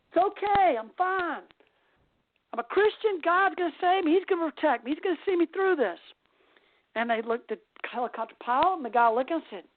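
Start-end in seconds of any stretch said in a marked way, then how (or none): 0.1-6.0 higher-pitched, mildly raised holler; mock yelled reply. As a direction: call back up as if to a helicopter. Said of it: "he screams to the man".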